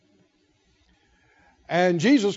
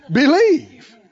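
loud proclamation; 6 semitones higher, 7 dB louder than usual. Real, not acted. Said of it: "rising to a loud punchline".

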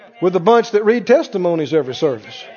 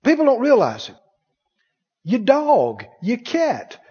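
usual speaking voice

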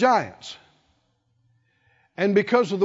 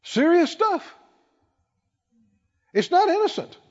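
normal talking voice

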